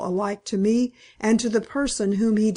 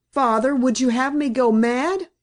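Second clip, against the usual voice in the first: a touch of anguish, raised and pleading; pleading moan; 3 semitones higher than usual. Acted. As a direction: beg her father in despair. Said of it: "I moaned".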